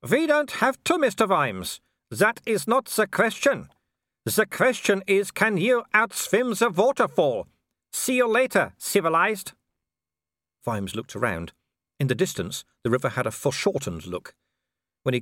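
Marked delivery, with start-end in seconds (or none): 0.1-9.5 high, loud, slow taunting shout. Acted. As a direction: yell it across the water. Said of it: "he shouted".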